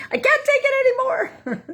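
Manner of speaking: high laughing half-sob; mock despair. Joking to viewers about the last straw, mock wailing. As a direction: wail it in a mock breakdown, laughing. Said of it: "And you're like".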